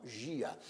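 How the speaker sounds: gia said as two syllables, gi-a; split final syllables. Shown as a demonstration. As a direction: separate gi from a in gia. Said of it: "nós separamos a parte final".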